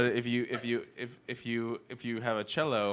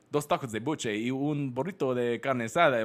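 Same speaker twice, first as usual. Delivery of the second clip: deeper Spanish voice. Shown as a demonstration. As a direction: lower masculine Spanish voice. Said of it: "you like the classic lower, like, masculine, sexy Spanish voice".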